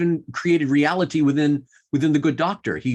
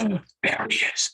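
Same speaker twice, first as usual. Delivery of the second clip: hushed, higher-pitched imitation of spectators; murmuring audience; 5 semitones higher than usual. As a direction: mimic a crowd's hushed recognition. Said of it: "the whole audience will go".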